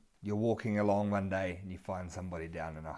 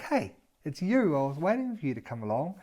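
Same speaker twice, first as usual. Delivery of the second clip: cheerful greeting; 4 semitones higher than usual. Retold or imitated.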